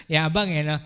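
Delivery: chuckling while calling himself cocky; laughing at himself. Real, not acted. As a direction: laugh it off, self-mocking. Laughs at own boasting. (natatawang pagbibiro sa sarili)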